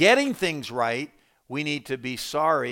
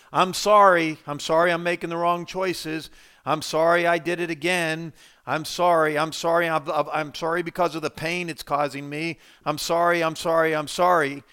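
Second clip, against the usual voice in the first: mock worldly sorrow; 3 dB louder than usual. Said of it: "that's worldly sorrow".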